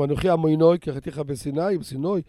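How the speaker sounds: "עמונוי" and "בסינוי" said with oy endings; Ashkenazi reading. Shown as a demonstration. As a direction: show how Ashkenazi vowels break the rhyme. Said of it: "לפי האשכנזים זה לא חרוזים".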